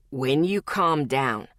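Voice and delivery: low, slow, steady male voice; a big man promising, unbothered; calm promise. Acted. Zeke promises the struggling Lexi, low and calm. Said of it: "he promised calmly".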